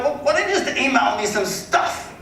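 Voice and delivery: high, slow, affected rich man's voice; Philip Harding, wealthy caller. Retold or imitated. Homeowner fobs agent off to email, high and drawn out. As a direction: imitate a wealthy man dragging out his words. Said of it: "wealthy people, like, they just have this".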